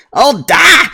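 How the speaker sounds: very high, loud mock-girlish cry; hammed-up little girl shout; young dwarf girl. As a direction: protest to dad in a squeaky dwarf accent. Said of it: "says the girl".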